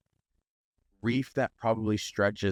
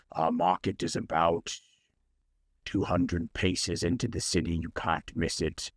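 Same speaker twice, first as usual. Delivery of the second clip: lanternfish merchant; 3 semitones lower than usual. Acted. Lanternfish gives directions to market.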